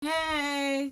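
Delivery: high, drawn-out imitated greeting; unbothered retold "hey"; casual and held long, imitating a friend; calm. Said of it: "she said it so calmly".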